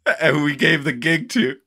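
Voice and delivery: mock amazement. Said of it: "Everyone who sees it is like".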